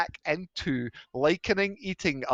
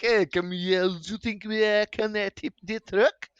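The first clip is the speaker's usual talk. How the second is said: mock streamer; 6 semitones higher, 4 dB louder than usual. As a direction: egg the crowd on, hamming it up. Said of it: "he's just like".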